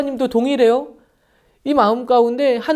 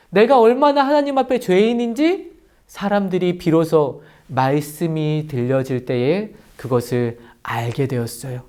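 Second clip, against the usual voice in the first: ordinary talk, nothing marked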